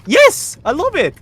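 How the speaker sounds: put-on very high, loud squeaky child voice; mock child voice. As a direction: play an eager little kid. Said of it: "the child would be like".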